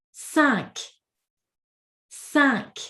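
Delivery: cinq ending on a clear K; cinq, sound the last letter as K; cinq, final K said. Shown as a demonstration. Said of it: "we actually must pronounce the last letter".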